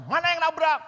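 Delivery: high, loud demanding shout; furious thug's challenge; angry shout. Retold or imitated. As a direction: bark the question at the driver. Thug brother confronting the driver.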